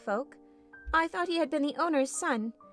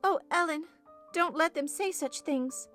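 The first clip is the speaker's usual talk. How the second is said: put-on higher-pitched pleading girl; mild childish distress; greatly troubled; 7 semitones higher than usual. A narrator's reading. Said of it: "she pursued in great trouble".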